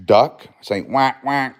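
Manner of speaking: high, sing-song coaxing. Real, not acted. Coaxing baby to make duck sound.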